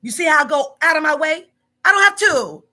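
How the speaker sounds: loud, pointed complaining; heated rant. Real, not acted. Boss scolding a worker, loud and heated. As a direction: lean in hard on every word.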